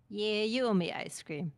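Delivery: Wombat voice. Acted. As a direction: play a small animal asking for a treat. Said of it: "my wombat voice, my best wombat voice".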